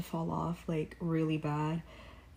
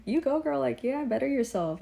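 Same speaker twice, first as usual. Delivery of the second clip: cheering; 6 semitones higher than usual. Retold or imitated. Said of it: "I was like".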